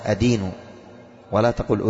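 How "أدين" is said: أدين said as "adīnu", a-vowel first; correct fatha form. Shown as a demonstration. Teacher giving students the right form, أدين as "adīnu". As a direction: open أدين on a clear short "a". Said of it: "لكن الصواب ماذا؟".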